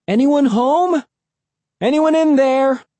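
high, sustained calling shout. A narrator's reading. Two kids shouting together at the shack, shouted call. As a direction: shout high towards someone indoors. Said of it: "We shouted together".

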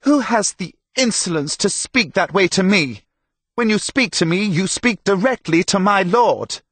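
high, loud, haughty outrage; indignant shout. A narrator's reading. Insulted herald to Tomas below, shouting indignantly. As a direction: rebuke an insolent inferior from the wall.

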